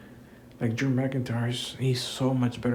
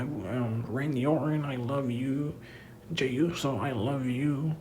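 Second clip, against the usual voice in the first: mock sappy promo; 3 semitones higher, 4 dB quieter than usual. Mocking Cody's promo to the fans, slow gushing sincerity. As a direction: ham up a tearful thank-you to the fans. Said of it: "cut promos saying the same shit".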